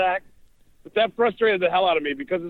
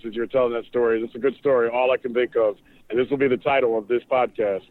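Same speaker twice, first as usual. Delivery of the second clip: a bit lower, lightly voiced impression of a friend; Doug Deacon voice; 5 semitones lower than usual. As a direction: drop lower and play your buddy doing his bit. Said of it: "In my best Doug Deacon voice".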